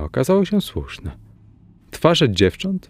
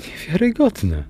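high exclaimed word, pitch jumping up; exclaiming; 8 semitones higher than usual. A narrator's reading. Sister exclaims to the visitor in astonishment, higher. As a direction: blurt out the disbelief. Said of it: "wykrzyknęła".

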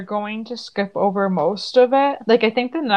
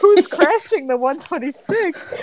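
surprised; 8 semitones higher than usual. Retold or imitated. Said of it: "and you're like".

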